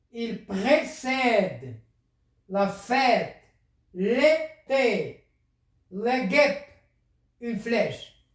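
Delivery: "il précède" drawn out very slowly; slow dictation. Shown as a demonstration. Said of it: "teacher dictating word list".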